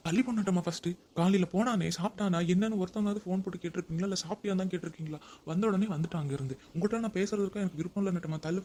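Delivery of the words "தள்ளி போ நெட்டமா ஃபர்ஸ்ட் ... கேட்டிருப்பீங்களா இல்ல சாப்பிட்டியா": sharp, louder scolding; angry scolding. Acted. Husband scolding wife at the door, angry. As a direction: snap at her to move aside.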